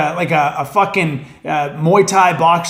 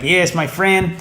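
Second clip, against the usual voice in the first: lightly mimicked South African friend's funny accent; imitated funny foreign accent; slower than usual. Coworker greeting his buddies, in an imitated funny accent. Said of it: "He had this funny accent".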